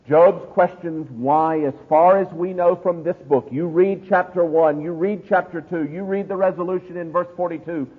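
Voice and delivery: high-energy pulpit delivery; forceful preaching. Real, not acted. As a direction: preach it hard, building a case point by point.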